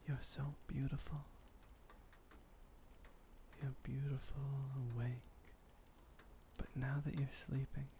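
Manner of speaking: soft whisper so as not to wake them; tender whisper beside a sleeping loved one. Acted. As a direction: hush to a whisper over a sleeper. Listener fell asleep, speaker whispers.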